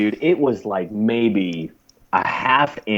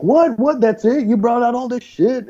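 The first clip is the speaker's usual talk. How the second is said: much higher, incredulous questions; surprised; 13 semitones higher than usual. Retold or imitated. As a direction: act stunned that it's over. Stunned guy after the bandage.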